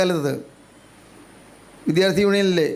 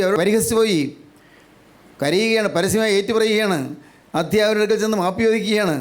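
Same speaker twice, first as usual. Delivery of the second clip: fervent preaching; 2 semitones higher than usual. Real, not acted. Preacher urges the congregation toward conviction and a broken heart, fervent preaching. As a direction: preach it insistently in a raised, carrying pitch.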